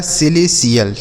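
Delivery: falling "सिलेशियल", no T sound; correct pronunciation. Shown as a demonstration. Teacher reading for students, "सिलेशियल" without T. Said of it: "टीआईएएल को सीएल पढ़ा जाएगा".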